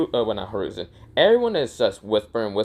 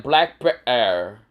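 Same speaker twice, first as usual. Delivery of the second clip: slow announcement; 3 dB louder than usual. Acted. Teacher reads out team member.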